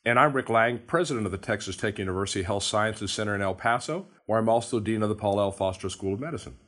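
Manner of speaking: hoarse from a cold; raspy voice. Real, not acted. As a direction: speak with a rough, raspy throat. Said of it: "Sorry about the raspy voice".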